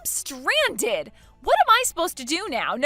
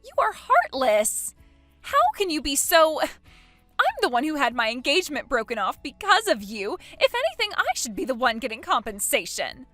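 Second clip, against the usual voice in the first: furious accusation; 6 dB louder than usual. Acted. Jilted bride blaming her rival, furious accusation. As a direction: hurl the accusation.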